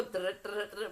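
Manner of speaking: rolled toe-drumming sound; imitated tapping noise. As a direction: rattle out a quick tapping noise. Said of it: "like when people go".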